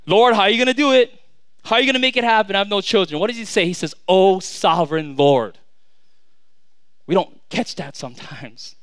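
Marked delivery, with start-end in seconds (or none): 0.0-3.2 higher, louder impatient plea; mock demanding prayer; blurting out the problem. Man jumping straight into his complaint to God, blurted out urgently. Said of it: "doesn't just jump out with this problem". 4.1-5.6 slow, weighty address to God; louder, drawn-out reverent invocation; humble reverence. Acted. Abram opening his prayer before any complaint, humbly reverent. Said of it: "I love the humility".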